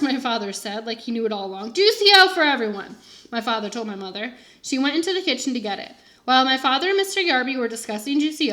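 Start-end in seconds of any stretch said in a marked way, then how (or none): 1.7-3.0 hearty announcement. A narrator's reading. Father voiced announcing.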